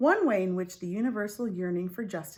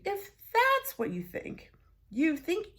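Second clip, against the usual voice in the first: mocking question; 12 semitones higher than usual.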